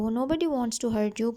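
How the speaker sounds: slow, careful reading of the English text; slow story reading. A narrator's reading. Teacher reading the English line slowly to her students. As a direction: read each word out slowly for the class.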